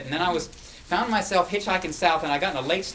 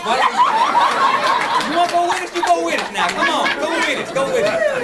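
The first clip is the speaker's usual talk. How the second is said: much higher and louder, laughing and pleading; 6 semitones higher, 6 dB louder than usual. Retold or imitated. The two drivers coaxing the hitchhiker to ride south, excited and laughing. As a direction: talk him into the trip, eagerly. Men urge hitchhiker to come along.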